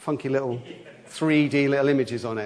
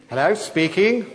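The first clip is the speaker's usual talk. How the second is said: posh telephone voice; 4 semitones higher than usual. Retold or imitated. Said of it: "a posh telephone voice".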